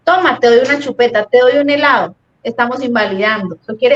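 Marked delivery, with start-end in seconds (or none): 0.0-2.1 high-pitched coaxing "no pasa nada, mi amor"; soothing parent. Retold or imitated. Parent soothing a child who fell, high and coaxing. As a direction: hush a fallen child with treats. Se cayó y uno.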